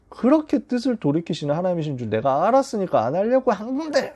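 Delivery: builds to a sharp high cry on 건데; angry outburst. Acted. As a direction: play Jonah's frustration rising into a yelp. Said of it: "이러면서 막 화를 내는 거예요". (화가 치밀어 마지막에 높이 터지는 외침)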